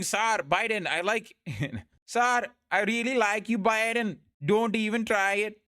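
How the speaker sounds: imitated politician in a Sinhalese accent. Politician flattering Biden, mock Sinhalese accent. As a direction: put on your best Sinhalese accent. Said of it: "I'm doing my best Sinhalese accent".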